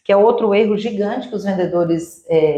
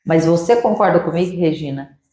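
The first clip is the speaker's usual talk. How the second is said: calm agreeing reply; 4 semitones lower than usual. Shown as a demonstration. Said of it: "surpreenda, ele fala".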